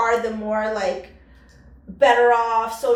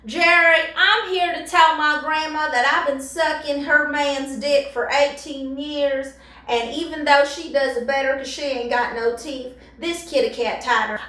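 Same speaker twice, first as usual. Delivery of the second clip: lightly voiced talk show confessor; a hint of a Springer guest parody; trailer park guest. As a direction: confess to Jerry in mock trashy style. Second parody Jerry Springer guest.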